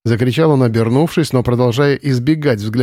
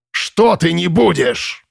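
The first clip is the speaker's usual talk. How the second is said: slow, higher threatening question; menacing question; 6 semitones higher, much slower than usual. Acted. Commandant presses her. (комендант угрожающе переспрашивает)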